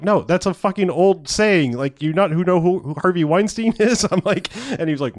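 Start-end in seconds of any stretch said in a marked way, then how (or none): 0.0-4.0 incredulous retort. Retold or imitated. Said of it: "I was like".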